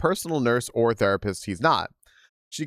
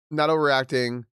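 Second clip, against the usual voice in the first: talking through hiccups; words broken by hiccups; hiccuping. Real, not acted. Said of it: "I'm hiccuping so much".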